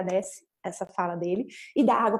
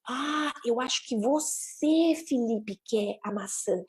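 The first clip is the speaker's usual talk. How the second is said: slow realization; 3 dB quieter, much slower than usual. Acted. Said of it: "a gente pode dizer alguma coisa do tipo".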